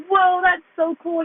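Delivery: high, drawn-out, impressed reaction; acted amazement. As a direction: stretch it out high in mock-awe as a quote. Acts co-leader's amazed reaction.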